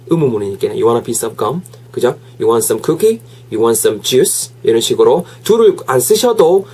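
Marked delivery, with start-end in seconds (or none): 0.7-1.6 "gum" lifted at the end as a question; rising question tune. Shown as a demonstration. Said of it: "끝은 올려줘야겠죠". 2.4-4.5 "cookie" and "juice" lifted as questions; rising question tune. Shown as a demonstration. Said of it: "뒤에 끝을 올려주면은".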